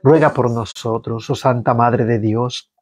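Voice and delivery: measured liturgical reading of the psalm; psalm recitation. Acted. Prayer leader leading online faithful in psalm, liturgical reading. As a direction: lead the congregation through the psalm. Prays the Salve Regina.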